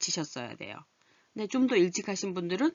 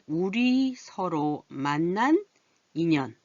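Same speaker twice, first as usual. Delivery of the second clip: drawn-out teacher reading; slow reading aloud; much slower than usual. Shown as a demonstration. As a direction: read slowly so learners follow. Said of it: "그다음에". (천천히 읽어 주기)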